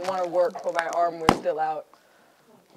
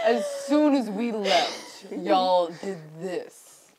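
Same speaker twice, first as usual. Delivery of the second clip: slow mock disapproval; much slower than usual. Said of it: "He's gonna be like".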